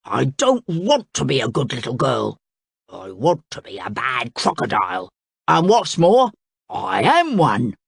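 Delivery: mock yell in a character voice; defiant yell. A narrator's reading. Crocodile rebelling against the king, yelling defiantly. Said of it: "He yelled".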